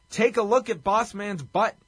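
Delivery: Jerry Lawler. Retold or imitated. Quoting the commentator's joke after the match, punchy announcer delivery. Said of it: "Jerry Lawler noted after the match".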